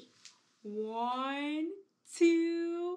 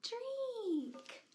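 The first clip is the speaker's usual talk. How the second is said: put-on baby voice; 5 semitones higher, much slower than usual. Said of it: "baby's saying".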